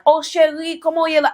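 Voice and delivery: high, sugary mock-sweet greeting; imitating a sweet-talking woman at the car window. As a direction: coo it like an innocent sweetheart. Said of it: "she said something along the lines like".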